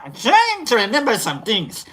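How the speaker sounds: second attempt at the wandering accent; retry the accent, reining in the Idi Amin slip; retried accent. Shown as a demonstration. Streamer showing the accent slip, in a retried accent. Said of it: "I don't mean it to be like that".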